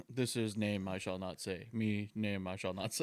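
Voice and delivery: caveman voice. Retold or imitated. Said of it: "why did you just turn into a caveman".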